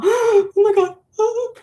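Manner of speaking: very high, drawn-out, excited freak-out. Retelling spotting Lady's Mantle in the nunnery: retelling an excited freak-out. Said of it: "I just start kind of freaking out".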